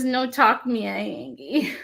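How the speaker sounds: reading the grumpy kitty quote with a hint of baby talk; barely voiced, mostly her own voice; light baby voice. Reading the sticker to viewers, a light hint of baby voice. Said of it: "animals talking in baby voices".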